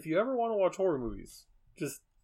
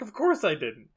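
laughing retelling; 7 dB louder than usual. Retold or imitated. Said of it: "He's like".

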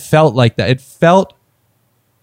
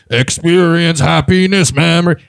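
Judi Dench; 3 semitones higher than usual. Retold or imitated. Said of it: "the other one's like".

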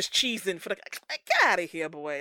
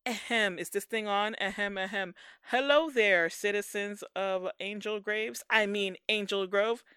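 mock Green Ranger; 3 dB louder than usual. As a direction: ham up a clueless new hero at a mic. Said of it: "Press conference".

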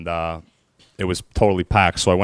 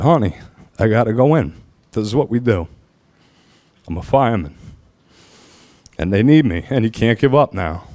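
close to tears; 2 semitones higher, 4 dB louder than usual. Real, not acted. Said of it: "I wasn't crying like I am now".

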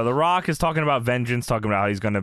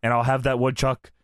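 Rock voice. Retold or imitated. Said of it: "I also wrote down The Rock in The Rock voice".

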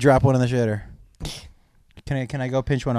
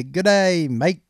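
raised, poorly faked Australian accent; 4 semitones higher, much slower than usual. Shown as a demonstration. Showing the only Australian phrase he knows, shaky-skilled Australian accent. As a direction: attempt an Australian "Good day, mate". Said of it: "my Australian one".

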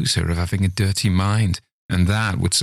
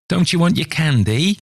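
high, louder mocking call; calling after; 10 semitones higher, 4 dB louder than usual. Old man teasing the nurse as she goes, calling out. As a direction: taunt her as she leaves. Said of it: "he called out after her".

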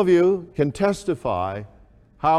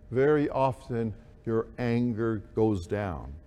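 gently lowered voice, settling down; demonstrating softer speech; 4 semitones lower, 6 dB quieter than usual. Shown as a demonstration. Preacher showing congregation how to calm anger, talking a little softer. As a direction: ease off and let the pitch sink toward the end.

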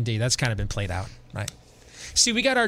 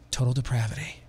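femme fatale; 3 dB quieter than usual. Shown as a demonstration. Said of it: "in a sultry voice to do the commercials".

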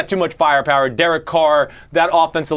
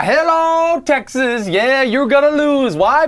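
high taunting voice; 7 semitones higher, slower than usual. Acted. Addresses Texas in put-on voice.

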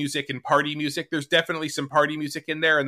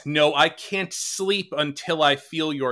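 slow recitation; slower than usual. Shown as a demonstration. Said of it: "the original lyrics being".

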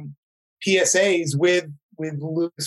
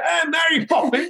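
Dick Van Dyke; 9 semitones higher than usual. Pretend. Guest mocks his own British accent, hamming it up. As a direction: shout it in a mock British musical-film voice. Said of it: "sound like Dick Van Dyke and Mary Poppins".

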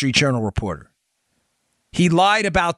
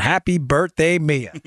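a light touch of a Queens accent on happy birthday; birthday wish in a hint of a Queens accent; old Queens accent; slower than usual. Shown as a demonstration. Host greets young fan Mia in a light Queens accent. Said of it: "my old former Queens accent".

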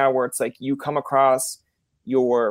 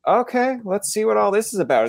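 put-on curious kid; 8 semitones higher than usual. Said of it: "and I'm like".

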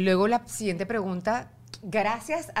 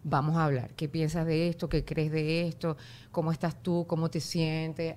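serious talk; 4 semitones lower than usual. Retold or imitated. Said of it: "Ahora es".

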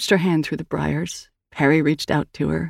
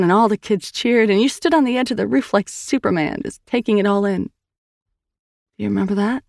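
higher, earnest sister voice; Sal's voice; 4 semitones higher than usual. Acted. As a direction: tell it gently, coaxing a memory. Narrator voices Sal.

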